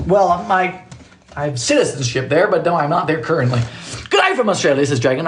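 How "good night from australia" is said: put-on light, higher Australian accent; stereotypical Australian accent. Reading a viewer's greeting, mock Australian accent. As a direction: put on a touch of Aussie. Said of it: "I did the stereotypical accent".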